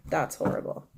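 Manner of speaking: breathy whisper of dismay; hushed, appalled whisper. Real, not acted. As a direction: whisper it like it's too awful to say aloud. Repeated reaction, whispered.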